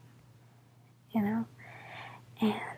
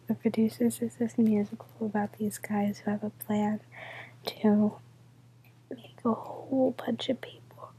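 whispering. Real, not acted. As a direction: whisper so nobody wakes. Whispers all night, midnight quiet.

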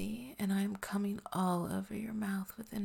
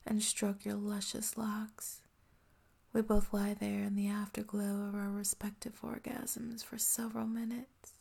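ASMR whisper. Acted. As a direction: breathe every word close to the mic.

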